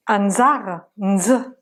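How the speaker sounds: "Anzar, nz" with n fused into z; "nz" as a hummed n into a buzz; Malagasy nz demo. Shown as a demonstration. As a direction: sound out the nz in "Anzar", then alone. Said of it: "On a fini les prononciations".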